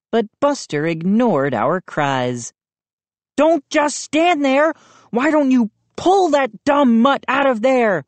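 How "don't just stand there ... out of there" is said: higher, pushy demand; Moose demanding. A narrator's reading. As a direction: boss them around. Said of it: "Moose demanded".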